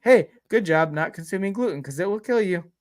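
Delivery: hammed-up friendly machine voice; cheery toilet voice. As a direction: cheer the user on like a peppy gadget. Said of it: "it'd probably be like".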